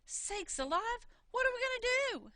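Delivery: frightened brother crying out; panicked wail. Acted. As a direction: beg for a way out.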